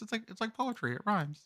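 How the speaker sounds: George Lucas impression. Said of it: "it's my George Lucas".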